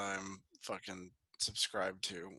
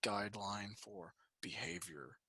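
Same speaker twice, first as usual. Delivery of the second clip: mock forum moderator; 2 semitones lower than usual.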